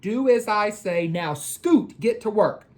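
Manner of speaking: high, firm motherly warning; firm mom. Acted. Mrs. Jordan stopping the boys from playing before homework, firm. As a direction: lay down the rule like a strict mom. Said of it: "Missus Jordan said".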